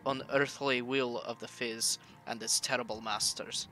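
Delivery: put-on heavy Russian accent, reading an occult text; solemn Russian-accented reading. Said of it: "It is hard doing that Russian accent for long".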